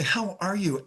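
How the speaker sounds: sincere, caring phone greeting; gently interested question. Shown as a demonstration. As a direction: ask it as if you really care. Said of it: "act like you care".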